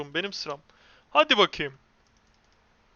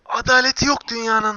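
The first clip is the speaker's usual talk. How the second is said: loud, raised-pitch protest at injustice; shouted gamer lament; outraged cry; 4 semitones higher, 8 dB louder than usual. Real, not acted. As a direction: cry out against an unfair world. Loud lament over unfair game.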